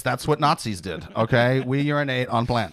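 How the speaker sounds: lightly put-on semi-Swedish lilt; earnest hippie with a faint Swedish accent. Hippie midwife explains home birth and potty plants, semi-Swedish accent. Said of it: "What is this semi-Swedish accent".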